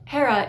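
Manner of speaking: "Hera" with a pure long e and tapped r; Greek pronunciation. Shown as a demonstration. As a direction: say "Hera" the ancient Greek way, HAY-ra. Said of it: "Once again, it looks like".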